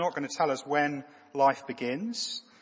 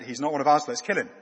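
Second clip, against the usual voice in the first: mock menacing verdict; 8 dB louder, faster than usual. Acted guards deciding to kill.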